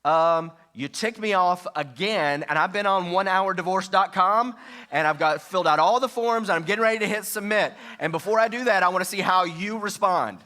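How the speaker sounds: loud, high, hammed-up angry spouse; harsh angry demo. Shown as a demonstration. Mock-furious spouse threatening divorce online, loud and high. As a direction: blast it like a furious partner. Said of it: "Or you could do it like this".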